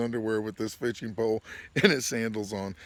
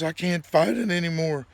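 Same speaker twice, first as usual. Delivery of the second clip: mock plea of a beaten man, pitched up; retold pleading; 4 semitones higher, 4 dB louder than usual. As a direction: imitate your friend giving up and begging. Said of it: "pleading with me to come down".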